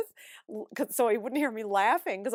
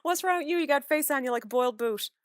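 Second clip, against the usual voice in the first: lightly imitated mother, higher at the start; mock motherly telling-off in Newfoundland idiom; mother's scolding; 5 semitones higher than usual. Imitating mother to a grumpy-looking child, mock scolding. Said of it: "I can hear my mother saying this".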